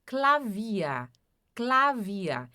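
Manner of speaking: Klavier with its -er ending as an open A; final -er como A. Shown as a demonstration. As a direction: repeat Klavier, ending in "ah" instead of R. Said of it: "terminou em E R, som de A". (Klavier terminando em som de A, sem R)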